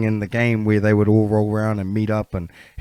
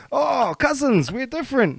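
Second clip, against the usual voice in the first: mock condescension. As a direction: draw it out high, imitating a snooty cousin. Acting Māori talking to Pacific cousins.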